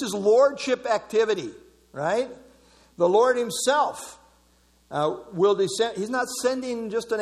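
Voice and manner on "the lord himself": "Lord himself" slow, high and loud; stress on Lord himself. Shown as a demonstration. Preacher insisting no angel is sent, "Lord himself" stressed. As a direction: punch out "Lord himself", drawing it out. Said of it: "emphasizing him personally".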